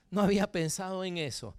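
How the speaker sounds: low, subdued voice of a sad person; lightly acted glum reply, low and soft; sad meme person. Preacher voicing the sad person in a meme, mildly glum and low. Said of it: "sale una persona triste".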